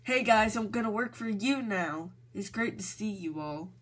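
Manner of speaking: excited voice. Shown as a demonstration. Demoing for Johnson how to say the line, excited and loud. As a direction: burst in cheerfully, then settle. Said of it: "say in an excited voice".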